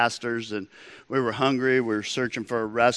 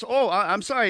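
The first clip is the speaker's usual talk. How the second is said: lightly voiced waiter, higher-pitched apology; bigger-than-life waiter; 7 semitones higher, faster than usual. Waiter apologizes after diners decline, lightly imitated big manner. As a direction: imitate the waiter backpedaling in a high voice. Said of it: "bigger than life".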